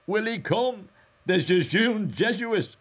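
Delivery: high, loud crowing delight; delighted cry. A narrator's reading. Mulligan teases the Jesuit while shaving, delighted cry. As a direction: cry it out gleefully, well above normal pitch. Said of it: "laughing with delight, cried".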